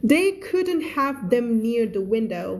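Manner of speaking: slow, measured English reading; story read-aloud. Acted. Teacher reading a story to English learners, slow read-aloud.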